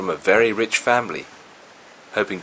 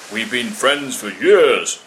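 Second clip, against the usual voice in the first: slow, louder smug monkey voice; smug lying monkey; 8 dB louder, slower than usual. A narrator's reading. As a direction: draw it out like a smug fibber.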